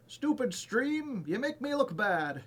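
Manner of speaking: mock grumpy voice. Streamer grumbles at broken stream.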